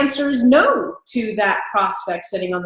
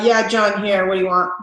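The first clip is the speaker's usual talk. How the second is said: rude phone greeting. Shown as a demonstration. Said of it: "not an effective greeting".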